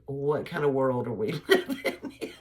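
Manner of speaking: P=A; laughing disbelief. Retold or imitated. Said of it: "it just makes me go".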